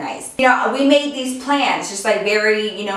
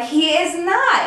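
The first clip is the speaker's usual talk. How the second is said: indignant denial; 8 semitones higher, slower than usual. Retold or imitated. Friends arguing over her boyfriend.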